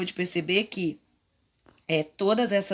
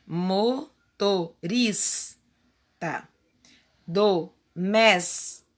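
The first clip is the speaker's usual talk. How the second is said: "doméstico" drawn out slowly on the S; slow down so they hear the S close the syllable; devagar, destacando o S; slow emphasis; slower than usual. Shown as a demonstration. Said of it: "Ela está no final da sílaba".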